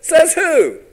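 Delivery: high, loud jeering "Says who?"; mocking boys. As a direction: toss it back like a cocky kid. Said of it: "And they said".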